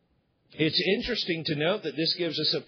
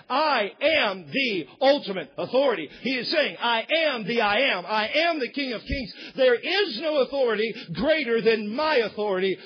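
voicing Jesus; 4 semitones higher, 3 dB louder than usual. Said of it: "Jesus is saying".

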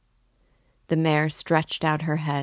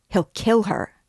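higher, louder cry from the crowd; alarmed shout; 6 semitones higher, 4 dB louder than usual. A narrator's reading. A bystander cries out in horror, shouting. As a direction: call out in alarm that he'll kill her. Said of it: "was shouted round him".

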